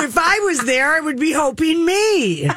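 high laughing tease. Real, not acted. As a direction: giggle while joking. Laughing joke about being picked.

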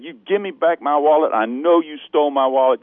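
mock angry demand; retold screaming. Tourist confronting the thief on the subway, retold yelling. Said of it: "So I'm screaming at this girl".

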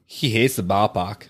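put-on joking Boston accent, dropped r in ballpark; lightly mock Boston accent. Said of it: "you were born to do a Boston accent".

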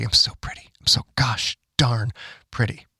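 airy, breathy mock debutante voice; breathless excited debutante. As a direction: coo it like a vain society girl. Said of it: "I sound like a debutante at a party".

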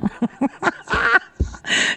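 quiet, voiceless burst of laughter; can't hold the laugh in; real laugh. Real, not acted. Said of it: "I had to laugh".

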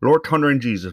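hammed-up East Coast Newfoundland exclamation; Newfie accent. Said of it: "with their East Coast accent".

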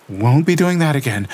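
put-on high, tense young woman's voice reliving horror; Lena shaken. A narrator's reading. Lena telling Gabriel what she felt, shaken and tense. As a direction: voice Lena trembling through the vision.

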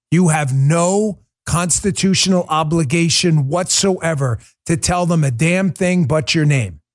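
ordinary talk, nothing marked

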